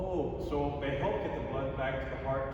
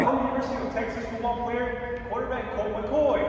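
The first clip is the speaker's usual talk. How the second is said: put-on wide-eyed 1950s kid; 7 semitones higher, 6 dB louder than usual. Kid amazed at guest.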